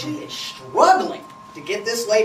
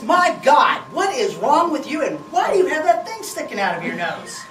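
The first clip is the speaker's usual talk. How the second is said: exasperated outburst; 4 semitones higher than usual. Retold or imitated. Wife scolding husband.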